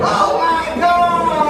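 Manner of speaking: high, loud, slow outraged exclamation; shocked gasp. Acted. Dummy aunt learning the figure was Trump's, shocked. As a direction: cry out in horror as the puppet. Puppet realizes she was tricked.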